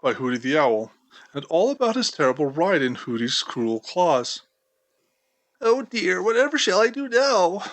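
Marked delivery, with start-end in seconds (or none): 5.6-7.6 higher, anxious little mouse voice; worried fretting. A narrator's reading. Injured mouse asks how to get home, worried. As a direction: fret helplessly. Hurt mouse frets aloud.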